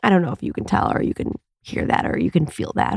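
soft, breathy-free hush, almost whispered; gentle voice. Real, not acted. Podcast host showing listeners her new gentle voice. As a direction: let them hear how gentle you've become. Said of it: "I'm gentler".

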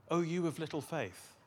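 a mildly reproving Jesus; stern reproach. Shown as a demonstration. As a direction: say it as a restrained rebuke. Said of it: "Is he angry?".

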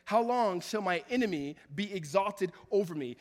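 psalm read at full preaching force; impassioned reading. Acted. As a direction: read the lament out like a plea. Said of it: "he says".

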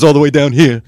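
dropped serious tone of an impression; Tony Danza. Shown as a demonstration. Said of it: "those are the two tones of Tony".

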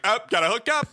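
high goofy character voice; silly high voice. Retold or imitated. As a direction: voice a guy hooking up a hose. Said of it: "and like".

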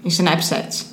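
Snapchat said as isnepsetchi; Brazilian pronunciation. Shown as a demonstration. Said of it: "como os brasileiros falam".

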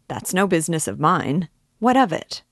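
exasperated, pushing him off; impatient cry. Acted. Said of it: "he cried at last, perplexed and impatient".

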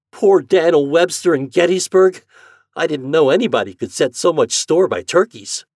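put-on high, loud boyish lament; distressed farm boy. Homer fearing for his turkeys, distressed.

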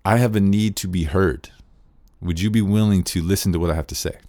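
open, unpressured ask to be heard; gentle request. Shown as a demonstration. Teacher showing the proper NVC request, calm and open. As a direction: offer the request, leave room for a no. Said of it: "the N V C way to say that is".

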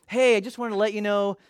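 whispered, gentle breakup line; kind whisper. Shown as a demonstration. Pastor showing how to end a harmful relationship, kind whisper. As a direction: breathe it out as kindly as you can. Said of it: "just really kindly, as nice as you can".

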